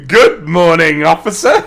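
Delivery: a lightly voiced cheery boy, rising on officer; chipper kid. Stepson chirps hello to the officer, lightly chipper. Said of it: "he was so chipper".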